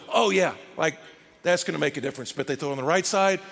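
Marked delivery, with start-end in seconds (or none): 0.1-2.3 sarcastic. Acted. Sarcastic reply of the fishermen.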